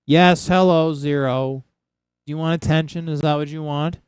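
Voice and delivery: greeting the pet Zero, doting; pet talk. Real, not acted.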